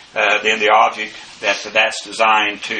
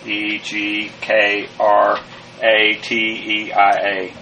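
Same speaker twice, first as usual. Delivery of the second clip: letters spelled one by one, slowly; slow spelling; slower than usual. Shown as a demonstration. Teacher spelling the Greek word slowly for the class.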